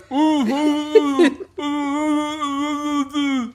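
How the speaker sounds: slow muffled ooh with a full mouth; crackers stuffed in mouth. Retold or imitated. Recruit reciting the creed with crackers in his mouth, muffled slow oohs. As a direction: mumble through a mouthful of crackers. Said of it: "it came out as".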